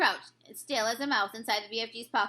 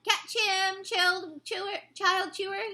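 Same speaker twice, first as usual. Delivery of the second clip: higher, bellowing repeated call; giant shouting; 6 semitones higher, slower than usual. A narrator's reading. Giant playing catch, shouting to child chewer. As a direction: yell it out, throwing him high. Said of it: "he shouted".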